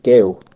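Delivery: put-on "Girl" said loud with an ending close to a W. Shown as a demonstration. Man showing how "Girl" ends almost in a W. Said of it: "almost a W at the end".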